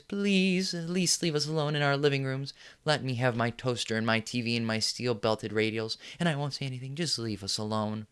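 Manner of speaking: mock pleading in a high whine; whiny plea. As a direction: whimper like a cowed citizen begging. Mocking the meek public's plea.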